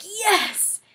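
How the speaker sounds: high loud cheer; gleeful yes. Retold or imitated. Seeing her friend sobbing too, cheering. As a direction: cheer in triumph. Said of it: "That sounded really mean".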